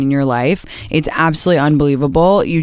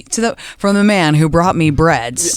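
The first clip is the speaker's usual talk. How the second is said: mock announcement. Mock announcing new restaurant.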